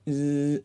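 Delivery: short buzzing drone noise; imitated drone buzz. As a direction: buzz like a small drone turning.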